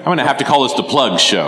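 laughing. Real, not acted. Teasing about constant plugs.

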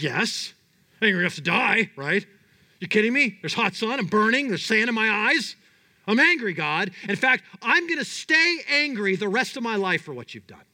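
preacher playing an indignant Jonah; angry Jonah. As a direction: rant at God like a sunburnt prophet.

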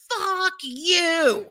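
high pitched mock scream. Pulled back to the car by son, high scream. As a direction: scream it while dragged away. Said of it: "I'm just screaming".

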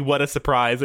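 sarcastic. Retold or imitated. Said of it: "He says sarcastically".

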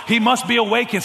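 loud, high, stretched sarcastic jeer; mocking taunt. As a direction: taunt them with relish. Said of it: "Elijah mocked them and said".

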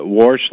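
"wash" said with an r, like "warsh". Retold or imitated. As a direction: put an r into "wash". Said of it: "he'll say".

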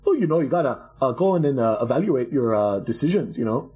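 hint of a generic European accent, mocking a finance guy. Quoting a retirement blogger in a hammed-up generic European accent. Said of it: "my generic European accent".

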